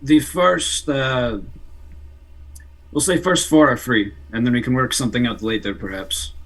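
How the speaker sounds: put-on a poor Russian accent, half-hearted. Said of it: "It's a very poor Russian accent".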